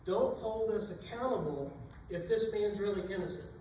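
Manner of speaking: desperate sailors' pleading prayer. Acted. Sailors praying before throwing Jonah.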